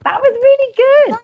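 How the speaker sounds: high, loud put-on voice; a comic high voice cheering the host. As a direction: praise in a silly squeaky character voice. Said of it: "Thank you, darling".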